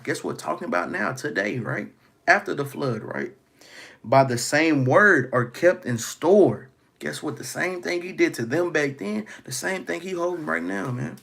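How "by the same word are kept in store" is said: slow, louder scripture reading; solemn, slow pulpit reading. Acted. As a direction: drag each word out like a proclamation. Reads scripture slowly.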